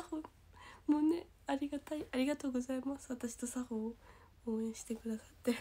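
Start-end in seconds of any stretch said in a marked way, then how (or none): 3.1-5.5 soft whisper of gratitude; whispered thanks. Acted. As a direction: whisper your thanks close to the mic.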